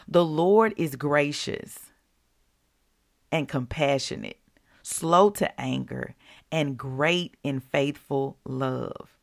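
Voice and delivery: slow, deliberate Bible reading; scripture reading. Acted. Reading Psalms to her viewers, slow and reverent. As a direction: read each phrase slowly and reverently.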